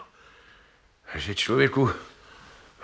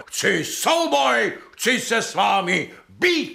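high, slow, declaring a duel; challenge to duel; 5 semitones higher, slower than usual. Acted. Landowner challenging the widow to a duel, grandly.

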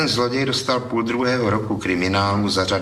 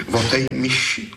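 dejected; 7 semitones higher than usual. A narrator's reading. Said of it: "Pravil hlas malomyslně".

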